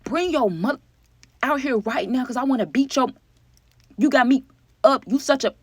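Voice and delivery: high, loud mock rant; angry ex shouting through the door; imitated angry yelling. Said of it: "hear Bertha on the other side of the door".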